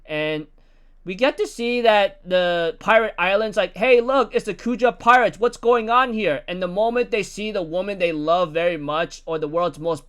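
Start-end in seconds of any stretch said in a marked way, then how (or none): 3.8-6.4 excited call. Retold or imitated. Islanders spot the Kuja pirates.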